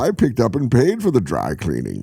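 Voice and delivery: sitcom Bane. Acted. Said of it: "Bane in a multicam".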